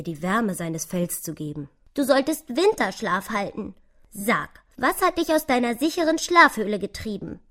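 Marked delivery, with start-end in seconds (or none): 1.9-7.4 lively, higher squirrel voice, gently scolding; besorgtes Eichhörnchen. Acted. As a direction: question the little mouse with energy. (lebhaftes, besorgtes Eichhörnchen)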